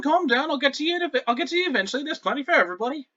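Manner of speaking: a cheerful pirate handing out fruit; high pirate voice. Acted.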